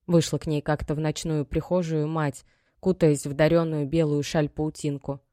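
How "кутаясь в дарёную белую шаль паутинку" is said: plain reading voice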